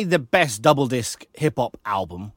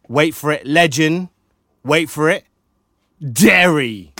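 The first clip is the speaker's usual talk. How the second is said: dramatic build-up reveal; 6 dB louder than usual. Acted. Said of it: "that's probably your best A K A".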